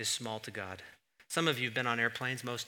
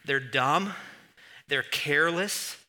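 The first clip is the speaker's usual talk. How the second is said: put-on quoting an old friend; 2 semitones higher, 3 dB louder than usual. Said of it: "he just goes".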